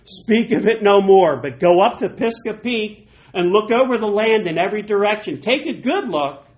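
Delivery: God rebuking Moses, loud and firm. Acted. God forbidding Moses the Jordan, loud stern rebuke. Voicing God's rebuke in scripture.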